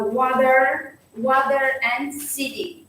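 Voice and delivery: "water" and "city" with the T as a soft D; American soft T. Shown as a demonstration. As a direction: say "water, water and city" American-style, T softened towards D. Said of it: "sounds like a soft D".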